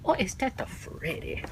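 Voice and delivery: high, silly voice of a clueless viewer; mock confused moviegoer. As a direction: act out a confused audience member. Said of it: "Everybody say".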